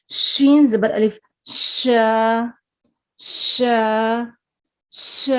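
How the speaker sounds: ش drawn out as a clear sh sound, not s; teacher models ش slowly and clearly; sh sound demo. Shown as a demonstration. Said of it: "شین جیسی آواز پائی جائے گی".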